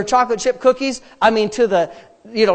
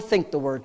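"think the word" dropped low and softer; inward answer; 7 semitones lower, 6 dB quieter than usual. Shown as a demonstration. Preacher drilling day-and-night habit, "think the word" low and inward. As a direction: turn "think the word" inward, lower and quieter. Chanted contrast of talk, think.

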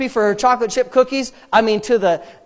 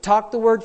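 "Talk the word" pitched up, firm; spoken-out emphasis. Shown as a demonstration. Preacher drilling day-and-night habit, "Talk the word" said out firmly. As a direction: say "Talk the word" out, raised against its answer. Chanted contrast of talk, think.

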